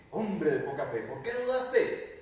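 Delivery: slow rebuke rising on "dudaste"; mild scolding. Acted. Jesus chiding Pedro as he lifts him, mild scolding. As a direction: chide gently but firmly. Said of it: "y le dice".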